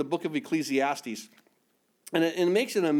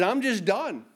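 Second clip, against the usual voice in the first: higher, emphatic giving up; acted exasperation; 4 semitones higher than usual. Preacher voicing Jeremiah giving up, exasperated. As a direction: throw in the towel, fed up. Voicing prophet who gives up.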